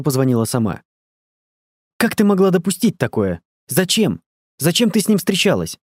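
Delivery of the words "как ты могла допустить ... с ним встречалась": voiced cry of angry disbelief; shouting. A narrator's reading. Elsa shouting at Angela on the phone, furious. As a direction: throw the questions at her. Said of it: "закричала Эльза".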